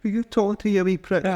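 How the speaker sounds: high-pitched mock angry boss on the phone; Fergus's accent. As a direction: imitate an indignant little boss, very high. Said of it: "I can't do Canadian after that. Wee Fergus's accent".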